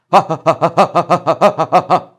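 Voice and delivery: fast, loud ha pulses; rapid-fire ha from the belly; quick loud ha exercise; double-time ha. Shown as a demonstration. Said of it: "do it double time".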